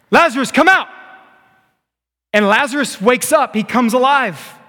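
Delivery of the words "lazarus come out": high, loud commanding call; godlike voice. Acted. Preacher as Jesus calling the dead man out, godlike voice. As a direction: summon him out like God. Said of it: "in a very godlike voice said".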